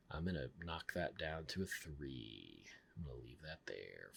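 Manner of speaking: soft whispered aside. Real, not acted. Reviewer quietly admitting he's lowering the rating, whispered. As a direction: whisper it like a confession.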